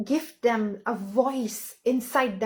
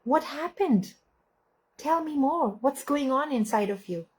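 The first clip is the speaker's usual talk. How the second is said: gentle parent; 3 semitones higher than usual. Shown as a demonstration. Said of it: "we can say".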